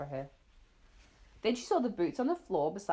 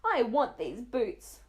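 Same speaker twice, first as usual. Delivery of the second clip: put-on whiny child; 5 semitones higher, 5 dB louder, much slower than usual. Child begging mother for boots.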